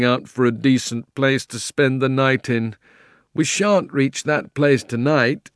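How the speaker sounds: gruff, slow talking horse. Acted. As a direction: play the weary flying horse. Fledge the horse speaks.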